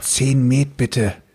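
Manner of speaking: whispering quietly. In a game, a player whispers an order into someone's ear: whispering quietly. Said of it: "Und ich flüstere".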